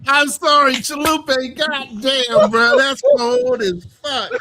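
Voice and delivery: loud, high outburst; real exclamation. Real, not acted. Podcaster reacting to a cold remark, loud high exclamation.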